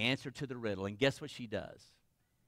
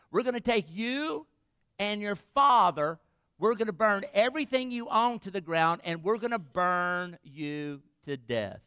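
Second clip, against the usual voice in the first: menacing threat; 4 semitones higher than usual. Acted. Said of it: "and they say to her".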